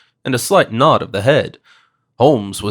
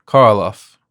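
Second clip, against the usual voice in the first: put-on muttered Slavic accent; 2 semitones lower, 5 dB louder than usual. A narrator's reading. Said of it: "the businessman muttered".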